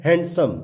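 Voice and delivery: हैंडसम said with the D heard; हैंडसम as "hand-sum"; wrong, sounded D. Shown as a demonstration. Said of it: "जो कि इसकी गलत प्र".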